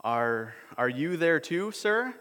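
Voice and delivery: lightly voiced boy, rising high on sir; hopeful boy. Edmund timidly asking Aslan if he is there, high. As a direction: ask timidly, hope rising.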